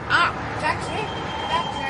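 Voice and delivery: calling out. Acted. Hailing a taxi in street.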